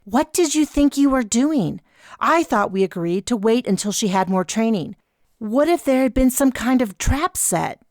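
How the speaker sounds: scolding whisper. A narrator's reading. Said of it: "voice was meant to be a whisper, but it cut across the room".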